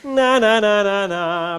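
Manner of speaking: mocking chant; nasty taunt. Shown as a demonstration. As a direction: throw it back at them. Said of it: "if they've made a fool of themselves".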